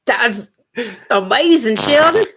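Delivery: put-on lightly accented character voice. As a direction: talk seriously in a silly put-on voice. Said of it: "talking all serious in a weird accent".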